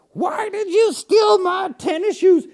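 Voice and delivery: high, drawn-out mock yell in an odd accent; yelling, strange accent. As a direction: holler it slowly across the house in a silly accent. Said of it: "have a strange accent".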